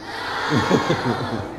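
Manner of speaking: low, soft chuckle; quiet rolling chuckle. Real, not acted. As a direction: laugh low at their answer. Laughs at the audience's answer.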